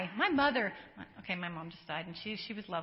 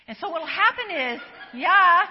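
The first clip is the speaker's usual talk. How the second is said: laughing; 5 semitones higher, 11 dB louder than usual. Real, not acted. Laughs mid-sentence, restarts.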